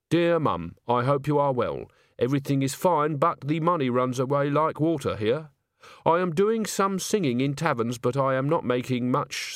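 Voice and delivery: careful, lightly voiced reading of a letter; a touch of stiff, deliberate correctness; letter writer. Agnes writing home to her mum, careful letter voice.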